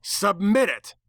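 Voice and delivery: high, shifted villain demand; demanding nightmare voice. Acted. Nightmare demands his body.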